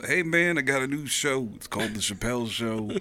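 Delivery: lightly voiced fellow comedian; a hint of the comedian introducing clips; Dave Chappelle. Headliner telling club crowd about his new show, lightly imitated. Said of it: "opening for Dave Chappelle once".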